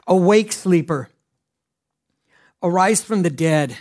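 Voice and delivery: scripture read out with rising force. Acted. Preacher reading Ephesians to the congregation, proclaiming. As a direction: proclaim the verse to the church.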